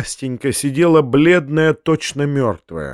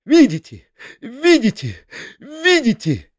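flaring up; 5 semitones higher than usual. Acted. Foma tearing up the uncle's letter, ranting. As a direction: explode into a shrill tirade. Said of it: "мгновенно воспламеняясь".

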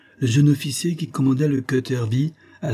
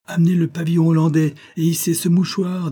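higher-pitched command to the crew; called-out order; 8 semitones higher, 4 dB louder than usual. A narrator's reading. Elim turns to his men, calling out orders. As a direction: call the order out across deck.

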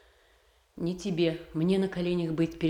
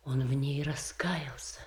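pleading whisper; 3 semitones lower, 5 dB quieter than usual. Acted. Sister pleads for prince Ivan.

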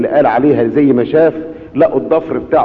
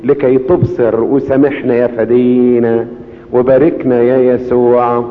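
slow, lowered prayerful plea; slow closing prayer; slower than usual. Acted. Preacher praying to Jesus for forgiveness with the congregation, slow and humble.

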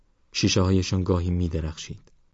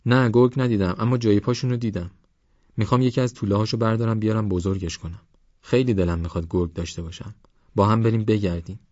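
higher-pitched youngster, full of longing; eager young Parvaz; 4 semitones higher, faster than usual. Acted. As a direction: plead eagerly like an adventurous kid.

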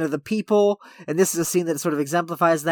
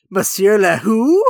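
slow, loud mock-clueless question, rising on "who"; incredulous waiter; 3 semitones higher, 7 dB louder, slower than usual. New maitre d' not knowing the famous guest, mock incredulous. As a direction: stretch "who" into a baffled question. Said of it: "And the guy goes".

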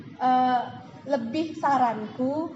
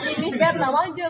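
louder, lively read; excited; 3 semitones higher, 6 dB louder than usual. Shown as a demonstration. Coach demos the hyped version of a chat message. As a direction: read it with hype and energy. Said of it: "kamu heboh dulu".

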